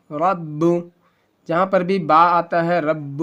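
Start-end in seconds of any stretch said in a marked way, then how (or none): 0.1-0.6 رب with a small echoing jolt on the closing b; qalqala bounce. Shown as a demonstration. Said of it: "وہاں پہ جھٹکا ہوتا ہے، قلقلہ". 2.8-3.2 رب with a small echoing jolt on the closing b; qalqala bounce. Shown as a demonstration. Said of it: "وہاں پہ جھٹکا ہوتا ہے، قلقلہ".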